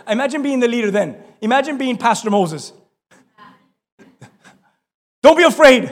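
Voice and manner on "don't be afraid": laughing mock reassurance.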